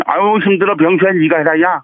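Chung Ju-yung impression. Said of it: "정주영 회장님 한번 해보시겠습니까".

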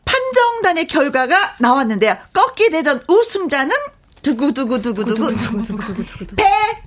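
building hype, big reveal at the end; hyped giveaway announcement. Acted. Host announces contest winner.

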